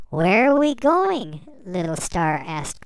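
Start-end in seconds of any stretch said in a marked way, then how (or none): 0.1-1.4 eager question. Acted. Little Star voiced asking.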